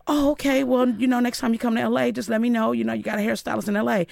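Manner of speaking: a bright, eager brush-off, pitched high. Retold or imitated. Teen stylist answering a singer's cancellation, eager and high. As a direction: keep it breezy and eager, up high.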